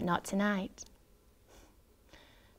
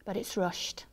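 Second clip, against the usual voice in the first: whispering; 8 dB quieter than usual. A narrator's reading. Disappointed hushed lines.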